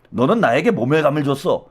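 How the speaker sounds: lightly voiced low mob boss; a hint of a film gangster boss; movie boss quote. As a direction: quote a crime boss, dropped in pitch. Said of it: "그 영화 그 달콤한 인생에 나오잖아".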